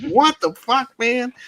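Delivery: squeaky high through giggles; cracking up in disbelief; laughing too hard to say it straight. Retold or imitated. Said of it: "I'm like".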